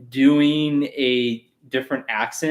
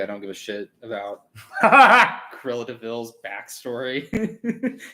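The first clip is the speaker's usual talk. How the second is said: laughing; slower than usual. Real, not acted. Dismissive opinion, laughing.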